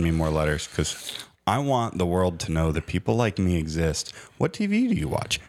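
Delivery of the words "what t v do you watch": high-pitched mock survey question; survey interviewer. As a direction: ask it as a put-on, high-voiced pollster.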